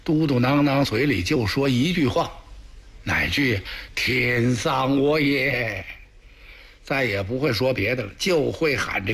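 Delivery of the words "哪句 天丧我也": slow, mild mock sobbing lament; understated tearful mutter of despair, slow; mumbled lament. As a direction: drag it out as a moaning grieving emperor. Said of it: "接茬哭啊".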